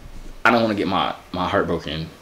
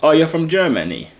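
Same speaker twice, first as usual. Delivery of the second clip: badly faked German accent, raised pitch; fake German accent; 4 semitones higher than usual. Prankster caught out by a real German, fake German accent. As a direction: keep up a phony German accent. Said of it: "doesn't sound like German accent".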